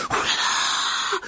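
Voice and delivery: long, drawn-out gasp of wonder; awed, stretched-out exclamation; fascinated. Acted. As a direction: marvel slowly at the sight. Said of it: "dit Colin, fasciné".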